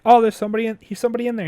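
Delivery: mock scream of a man fleeing in panic; retold scream. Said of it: "and he's screaming or whatever".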